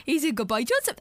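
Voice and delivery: imitated pet-doting voice, lifting at the end; mock parent praising a little one; talking like to child. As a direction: coo at a pet rat. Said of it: "Talks to Ronnie like it's a child".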